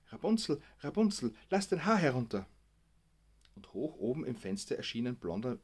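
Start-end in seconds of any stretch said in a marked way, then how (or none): 0.1-2.5 higher and louder call, Rapunzel stretched out; said loudly. Retold or imitated. Gabi leaning to the microphone, calling loudly. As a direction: call it up to the tower window, loud. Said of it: "und sagte laut".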